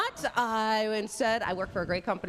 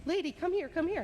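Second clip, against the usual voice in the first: excited call; 8 semitones higher, faster than usual. Retold or imitated. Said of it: "I'm like".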